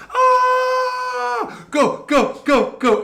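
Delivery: high shouted go go go; cheering crowd. Retold or imitated. Guards watching their friend, shouting him on. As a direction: cheer him on like rowdy soldiers.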